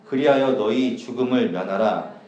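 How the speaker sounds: slow, measured Bible reading aloud; scripture reading. Acted. Preacher reads God's command to Aaron to the congregation, solemn scripture reading. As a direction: read out the verses emphatically, at a slow pace.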